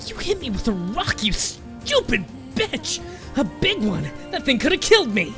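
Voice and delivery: high, loud shrieking outrage; outraged screaming. A narrator's reading. Hurt bully screaming at the old woman, high and loud. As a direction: scream at her in fury.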